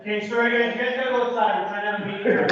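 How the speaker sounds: high, stern club-bouncer order. Pretend. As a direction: shoo them out like a bouncer. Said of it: "That's my bouncer voice".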